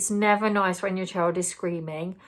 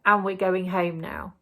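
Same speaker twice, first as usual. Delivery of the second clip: calm reassuring. Shown as a demonstration. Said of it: "You are saying".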